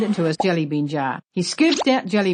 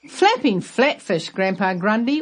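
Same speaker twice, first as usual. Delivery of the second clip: surprised exclamation; 3 semitones higher than usual. Acted. Millie exclaims a third time.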